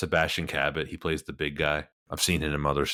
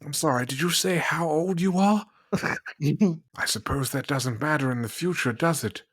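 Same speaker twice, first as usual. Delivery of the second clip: much higher, slow mid-Atlantic film-star voice; mid-Atlantic accent; 8 semitones higher than usual. Pretend. Host playing a suave film star in mid-Atlantic accent. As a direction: purr it like an old Hollywood mid-Atlantic gentleman. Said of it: "I absolutely love doing any mid-Atlantic accent".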